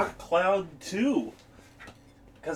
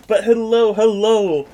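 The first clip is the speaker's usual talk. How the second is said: loud greeting; 3 semitones higher, 6 dB louder than usual. Real, not acted. Greeting stream chat loudly.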